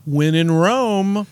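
slow, stretched tourist excuse; drawn-out catchphrase. Acted. Tourists in Italy excusing themselves, drawn-out catchphrase. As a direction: draw the words right out like a corny punchline.

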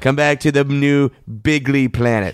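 slow, drawn-out alien call; lightly voiced alien beckoning; alien welcoming Trump. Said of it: "what if they land and say".

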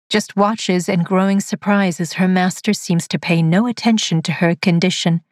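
ordinary delivery, nothing marked

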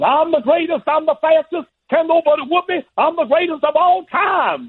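high-pitched, boastful champ's proclamation; Muhammad Ali. Retold or imitated. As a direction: crow it way up high, like a boasting fighter. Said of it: "He starts with the Ali thing".

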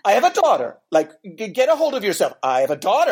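mock reprimand, pitch jumping up; imitating a punishing telling-off; imitated scolding. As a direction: deliver it like a swat on the hand. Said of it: "like a swat on the hand".

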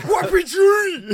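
put-on high, loud, drawn-out yell in muddled mixed accent; Gerard Butler. Mocking an action hero's warning, mixed-accent shout. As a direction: bellow it in two garbled accents at once. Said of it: "Gerard Butler with a mixture of a couple of accents in one".

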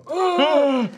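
sudden audible gasp; imitated gasp. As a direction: re-enact a shared gasp. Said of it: "we both go".

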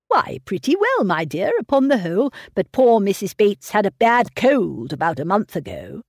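lightly voiced fussy old father, fretting over his daughter; a hint of a doting, anxious old man pressing gruel. Mr Woodhouse answering about Bateses.

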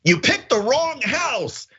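slow, high mock menace; tough-guy threat. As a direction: play the homeowner who means business. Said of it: "able to say in the moment".

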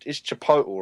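"Chipotle" tried as chi-POH-tul; tentative pronunciation. Real, not acted. Guest trying out the restaurant's name, "Chipotle" as chi-POH-tul. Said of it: "I'm gonna try and say".

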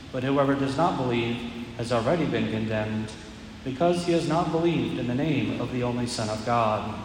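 solemn proclamation, measured pace; Gospel reading. Acted. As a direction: proclaim it from the ambo.

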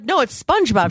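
SPONGEBOB said emphatically with an "uh" in SPUNJ; correcting pronunciation. Retold or imitated. Woman correcting her sister-in-law, emphatic Spunj-Bob. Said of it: "I was like".

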